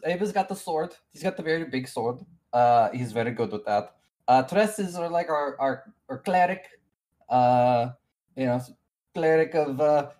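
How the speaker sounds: lightly voiced accented NPC, a bit flustered. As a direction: introduce your party in the NPC's accent.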